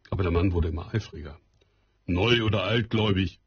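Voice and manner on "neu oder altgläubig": mild raised voice; the farmer getting more eager; calling out. Acted. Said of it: "rief er". (etwas lauter ausgerufen)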